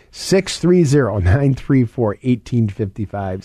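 slow, spaced-out phone number, each digit clear; slowly. Shown as a demonstration. Host slowing down the number for listeners, slow and clear. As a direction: read the number slowly so they can write it. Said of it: "Let me say it slowly".

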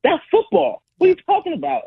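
can't believe anyone would ban it; incredulous outburst. Real, not acted. To the host, against banning the push: high incredulous outburst. Defending the tush push play.

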